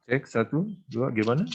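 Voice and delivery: glitchy robotic audio; choppy robot-like connection; half robot voice. Real, not acted. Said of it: "Suaranya kayak robot".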